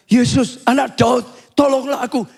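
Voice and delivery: acted call to get attention. Blind Bartimeus calls out to passing Jesus for help, calling out. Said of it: "Dia teriak".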